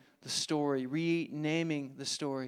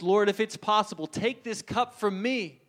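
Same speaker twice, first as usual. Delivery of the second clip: pleading prayer; 4 semitones higher, 4 dB louder than usual. Acted. Jesus pleading in the garden.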